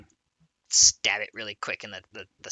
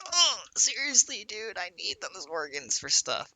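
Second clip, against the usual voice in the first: put-on Scottish accent; 9 semitones higher than usual. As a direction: whine it in a light Scottish accent. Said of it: "But in a Scottish accent".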